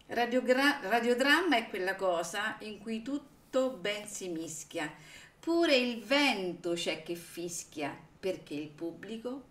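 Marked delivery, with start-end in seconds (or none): 0.1-8.0 reciting a verse. Retold or imitated. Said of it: "con questa quartina molto carina".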